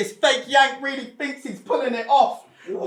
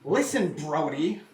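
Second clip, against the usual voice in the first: mocking the opponent, lower and slow; 6 semitones lower than usual. Rapper quoting the rival's comment in a lower mocking voice. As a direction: put on a dopey lower voice to mimic him. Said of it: "'cause you wrote".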